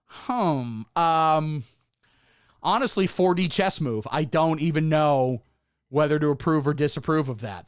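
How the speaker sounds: a hint of hesitant pondering online leftist, slowed; mock online leftist. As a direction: mildly mimic a hedging commentator. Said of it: "The online left would just be like".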